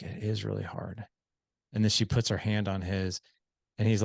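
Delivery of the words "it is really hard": melting. Retold or imitated. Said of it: "she melts".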